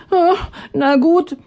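high, stammering resigned voice; the water giving in. Acted. The water giving in to Atanga, high and resigned. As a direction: reluctantly give in. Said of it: "sagte das Wasser".

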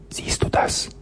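breathless frightened whisper in the dark; voiceless whisper, barely there. A narrator's reading. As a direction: hush it so nobody hears. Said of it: "flüsterte er".

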